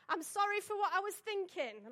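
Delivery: a high, teasing call through the door; mock shout. Brother jokes through the door, high mock shout. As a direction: call it out like the family joker. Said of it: "he sa-, shouted out".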